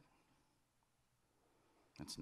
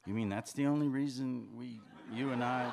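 loud, raised, outraged question; higher and louder, breaking off mid-thought; indignant disbelief; 6 semitones higher, 7 dB louder than usual. Acted. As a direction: throw it back, stung. Acted quarrel, hurt disbelief.

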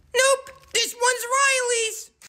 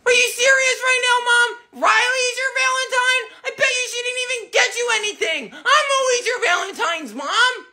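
put-on whiny kid. Billy whines at Mom over Valentine.

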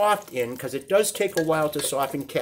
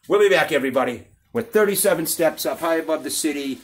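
announcer sign-off. Acted. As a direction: punch out the catchphrase. Show sign-off slogan.

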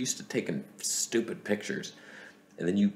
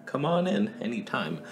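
cheerful clerk; 5 semitones higher than usual. Retold or imitated. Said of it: "He's like".

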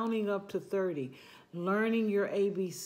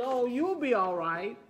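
little cat voice; 4 semitones higher than usual. Acted. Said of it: "little cat said".

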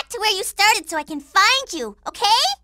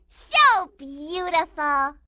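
awed admiration; 5 semitones lower, much slower than usual. Acted.

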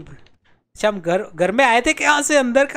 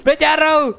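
mock panicked yielding; 3 semitones higher than usual. Gamer flees an attacker, mock panicked wailing. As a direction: give in with a hammed-up cry.

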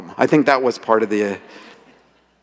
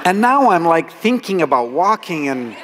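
laughing; 5 semitones higher than usual. Real, not acted. Laughing at his own clumsy walk.

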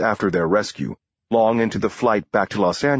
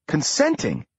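incredulous cry; 8 semitones higher than usual. Acted. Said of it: "Cynthia cried".

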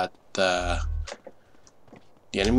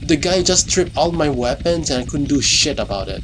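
louder, heated complaint; frustrated rant; 4 semitones higher, 3 dB louder than usual. Real, not acted. Gamer ranting after losing all his weapons, angry. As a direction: vent it like the game cheated you.

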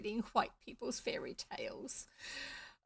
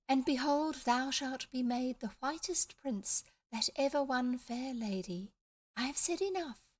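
fairy queen voice; 5 semitones higher than usual. Acted. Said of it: "small, high voice, like a little girl".

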